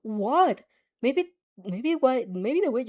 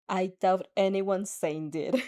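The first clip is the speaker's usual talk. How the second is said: deadpan; 3 semitones lower, slower than usual. Acted. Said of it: "you deadpan".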